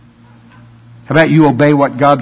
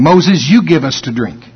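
mock demand. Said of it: "That's what they're saying".

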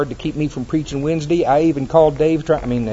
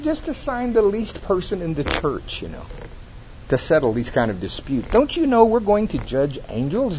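matter-of-fact; 4 semitones higher, 4 dB quieter than usual. Retold or imitated. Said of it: "so matter-of-factly".

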